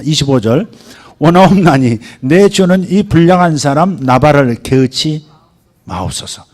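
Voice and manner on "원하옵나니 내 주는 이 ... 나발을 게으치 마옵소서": scripture reading. Acted. Pastor reads Abigail's plea, loud. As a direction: read the plea with loud weight.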